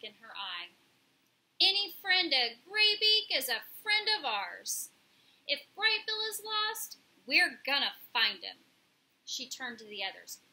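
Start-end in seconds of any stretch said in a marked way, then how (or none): 1.6-8.6 loud, emphatic bird voice; resolute pigeon. A narrator's reading. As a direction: pledge it boldly as a tough pigeon. Pigeon pledges to help.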